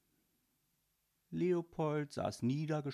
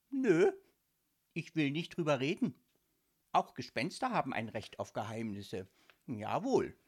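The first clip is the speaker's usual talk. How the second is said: sulky ghost; 4 dB louder than usual. Acted. Ghost Leopold sulking, in character.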